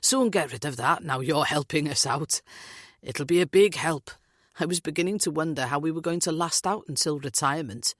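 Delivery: breezy, shrugging it off, Welsh lilt; light, carefree brush-off; dismissive. Acted. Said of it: "Steve laughs, waving a dismissive hand".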